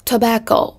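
"Tobacco" with BAC stressed; teacher's careful model of "Tobacco", weight on BAC; stress on second syllable. Shown as a demonstration. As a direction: lean on the middle syllable of "Tobacco". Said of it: "âm thứ hai".

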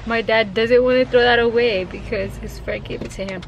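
talking through real tears, voice a bit strained; tearful. Real, not acted. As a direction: speak while holding back crying over a lost friend. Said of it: "I gotta stop crying".

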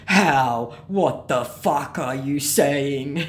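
loud, dragged-out baffled scammer. Acted. Scammer told he is not American, mock indignant bafflement. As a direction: stretch every word in mock bewilderment.

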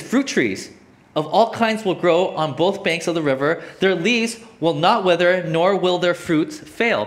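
slow, weighty verse reading; scripture reading. Acted. Preacher reading of the fruit trees to the congregation, slow emphatic scripture reading. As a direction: stretch out each promise with emphasis.

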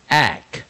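"ack" with a short A, each separate; phonics demo. Shown as a demonstration. Teacher modelling the rime for learners, "ack" with short A. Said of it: "我们就念成".

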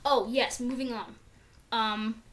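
talking around chewing gum; gum in mouth. Real, not acted. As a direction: speak with gum in your mouth. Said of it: "I have gum in my mouth".

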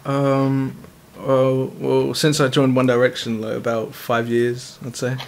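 low, lightly put-on British accent; fake British accent. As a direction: pose as a London lad, low. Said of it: "you just made an English accent".

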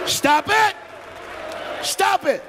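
high, laughing stop it; giggling, begging them to quit; laughing protest. Real, not acted. Preacher laughing at the crowd, high and giggling.

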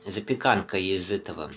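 talking between bites of noodles; chewing while talking. Real, not acted. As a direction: mouth partly full of food. Seen 3: Forkful of noodles repeatedly at mouth; he eats between phrases throughout.

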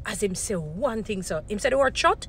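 rising mock indignation that lands hard on "shut."; mock outrage. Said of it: "this is how we're gonna be watching the pastors".

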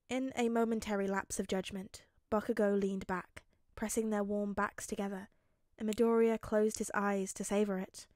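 measured audiobook narration; story narration. A narrator's reading. Narrator telling how Bakugo backs off, measured. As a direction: read the action evenly to the listener.

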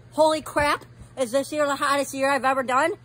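loud, pained outburst; loud exclamation. Real, not acted. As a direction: blurt it out over the burn. Mouth burning from hot chip.

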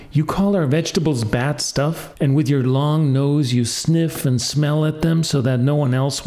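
lightly voiced little boy talking back; angry boy crying out. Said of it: "and he cried".

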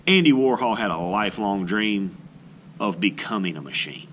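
storybook read-aloud, gently expressive; children's book narration. Acted. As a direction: read it like a picture book to a class. Reads picture book aloud.

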